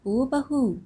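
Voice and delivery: calling her daughter-in-law from the next room, rising on the second call; a long-distance call of bahu; mother-in-law calling out to bahu. A narrator's reading. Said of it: "आवाज़ लगाती है".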